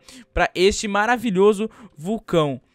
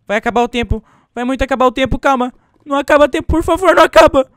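rising panic, higher and louder; panicked pleading; 7 semitones higher, 10 dB louder than usual. Real, not acted. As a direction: beg the clock not to end, getting louder. Timer running out, panicking.

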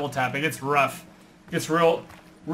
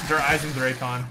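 German accent; 2 semitones lower than usual. Real, not acted. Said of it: "I said that with, like, a German accent".

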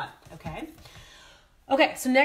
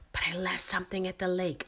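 embarrassed whisper; 3 semitones lower, 5 dB quieter than usual. Real, not acted. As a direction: whisper it like a confession. Embarrassing confession, whispered aside.

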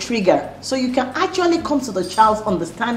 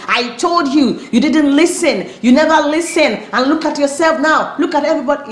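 louder and higher, building reproach; blaming scolding parent; 4 semitones higher, 4 dB louder than usual. Retold or imitated. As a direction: nag the child with rising blame. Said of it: "as if you are just blaming".

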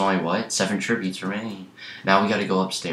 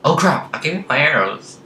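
panicked shout; 9 semitones higher, 7 dB louder than usual. Real, not acted. Loses arrows to teammate.

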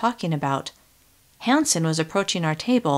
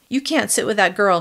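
mild yell, a little louder; a mildly raised scolding voice; 3 semitones higher, 4 dB louder than usual. Acted. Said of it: "she yelled".

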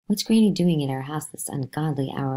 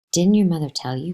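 smiling; 3 semitones higher, 6 dB louder than usual. Acted. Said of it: "Granny said with a smile".

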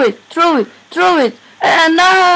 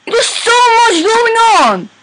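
adrenaline rush; 9 semitones higher, slower than usual. Real, not acted. Overwhelmed by game chaos.

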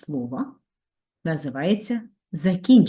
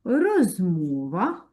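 slow dictation; much slower than usual. Shown as a demonstration. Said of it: "Абсолютно правильно".

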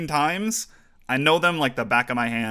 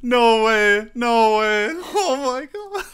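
elated shouting; 12 semitones higher, 5 dB louder, much slower than usual. Real, not acted. Just won, elated shouting.

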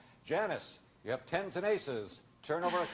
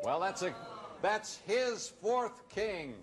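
surprised; 8 semitones higher, slower than usual. Real, not acted. Host reacts to fourth king.

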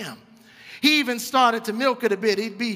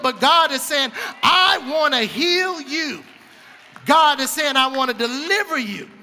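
rising preacher's cadence, punching each "God is saying"; preaching. Acted. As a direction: call it out to the congregation, building. Preacher voices God's promises.

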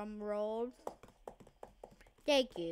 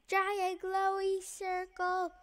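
excited; 9 semitones higher than usual. Real, not acted. Finding a big circle.

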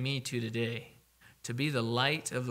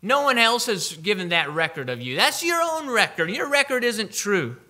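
mocking, higher and louder dismissal; scoffing Pharisees; 4 semitones higher, 5 dB louder than usual. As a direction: sneer it out like a skeptic laughing them off. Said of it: "They say".

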